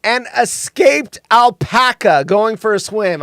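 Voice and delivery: slow, mildly grand punchline delivery; measured announcement after a drum roll; big reveal. Acted. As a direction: land it like a showman's reveal. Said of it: "drum roll".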